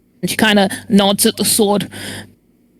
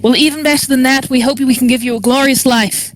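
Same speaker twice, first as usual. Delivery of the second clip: lightly put-on Irish accent. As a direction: do the character's line in an Irish lilt. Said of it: "That was Irish all the way".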